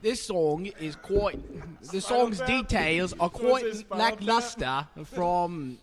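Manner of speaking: a mock posh English accent that keeps slipping; a wobbly mock English accent drifting off course. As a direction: try to hold a Shakespearean English accent. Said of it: "So English accent and go".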